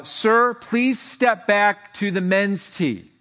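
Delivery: imitated PA announcer. Announcer calls a golfer back from the clubhouse, mock PA voice. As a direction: call it out slowly like a PA announcer.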